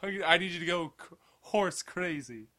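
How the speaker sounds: lightly voiced dumb horse, very soft; hushed aside as a horse; horse's voice. Podcaster voicing what dumb horses think, quiet horse voice. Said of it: "they're just like".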